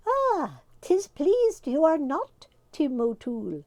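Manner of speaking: high, slow, teasing leprechaun voice; mocking fairy. A narrator's reading. The leader teasing an angry Tim. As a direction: needle him with a grin. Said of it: "said the leader".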